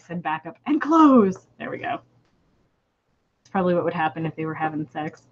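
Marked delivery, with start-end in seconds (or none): 0.7-1.5 alien voice. Acted. Alien voiced in read story.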